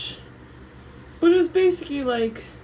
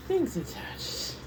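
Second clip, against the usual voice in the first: whispered aside; 6 semitones higher, 5 dB quieter, slower than usual. Real, not acted. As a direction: drop to a slow whisper. Confessing an embarrassing attachment.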